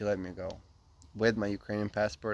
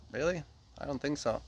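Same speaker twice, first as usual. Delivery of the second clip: higher-pitched, doubtful reenacted reply; disbelieving; 5 semitones higher, 4 dB quieter than usual. Traveler disputing his ninety-three days with a border guard, disbelieving. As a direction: act out mild disbelief, pitched up.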